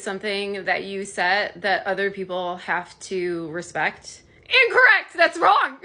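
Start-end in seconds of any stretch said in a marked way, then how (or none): 4.4-5.8 high, loud mock game-show correction; game show buzzer. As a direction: buzz them like a quiz host saying wrong answer. Buzzer-style correction of viewers.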